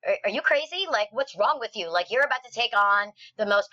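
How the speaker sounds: high, disbelieving "are you crazy"; mock the scoffers who think it's madness; incredulous doubters. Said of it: "everybody was like".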